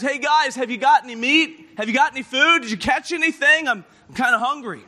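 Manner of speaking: mild mock yell across the water. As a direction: call out to friends in a boat. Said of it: "he yells out".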